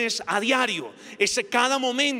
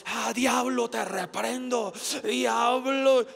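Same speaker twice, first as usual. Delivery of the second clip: mock rebuking prayer; 2 semitones higher, much slower than usual. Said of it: "un señor estaba ahí orando".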